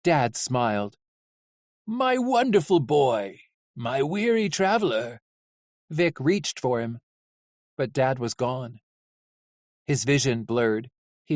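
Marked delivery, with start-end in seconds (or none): 1.8-5.2 tender father. Acted. Dad speaks lovingly in dream.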